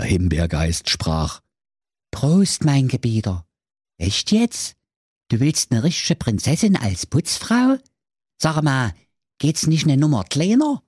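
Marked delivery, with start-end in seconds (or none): 2.1-10.8 raised-pitch genie balking at his master; incredulous raspberry spirit. A narrator's reading. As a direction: question the order as a baffled servant spirit. Spirit doubts the order. (ungläubiger Geist, erhöhte Stimme)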